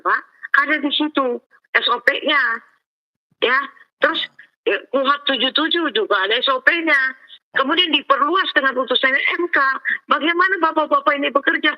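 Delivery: reenacted indignant questioning; indignant challenge. Retold confrontation with police investigators.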